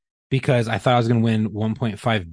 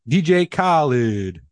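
drawn-out name drop; much slower than usual. Retold or imitated. Mimics the hype name drop.

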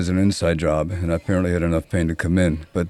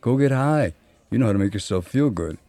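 put-on blunt old-timer; 5 semitones higher than usual. Old-timer's blunt advice retold.

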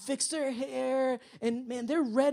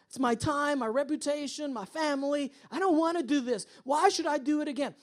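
higher-pitched mock complaint; frustrated complaint; 5 semitones higher than usual. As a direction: list your grievances, acting mildly exasperated. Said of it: "that frustration".

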